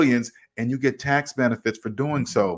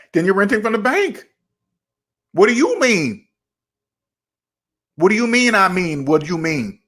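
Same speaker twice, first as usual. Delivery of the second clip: higher, puzzled mock questioning; baffled asker; 4 semitones higher than usual. Friend baffled by renting from the bank, higher mock puzzlement. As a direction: play the confused friend who can't follow.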